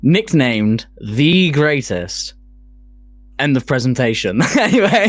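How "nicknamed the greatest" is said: slow, grand announcement; drawn out like a ring announcer; big slow boxing-ring build-up; dramatic announcer. Acted.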